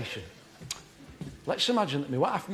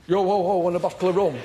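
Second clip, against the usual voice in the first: put-on silly pirate drunk; 4 dB louder than usual. Shown as a demonstration. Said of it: "No, that's silly".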